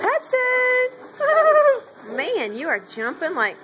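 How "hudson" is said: calling out. Real, not acted. Owner calls out to excited dog.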